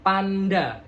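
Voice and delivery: PANDA with both vowels open and distinct; clear articulation. Shown as a demonstration. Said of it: "jelaskan kalau kita bilang panda".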